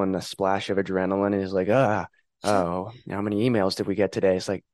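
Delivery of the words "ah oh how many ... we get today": mock nervous fretting. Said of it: "a little nervous guest".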